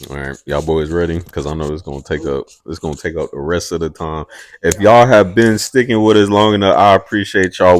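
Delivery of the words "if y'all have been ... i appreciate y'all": louder, emphatic host voice, slowing at the end; show host announcement. Acted. Host thanking listeners before the main event, announcer style. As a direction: announce it to the audience, drawing out the finish.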